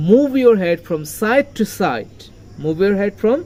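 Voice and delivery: very slow line leaning on side; stress on SIDE. Shown as a demonstration. Teacher modelling the line, side stressed. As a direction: draw it out, marking each side. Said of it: "সাইড শব্দটাকে আমরা stress করেছি".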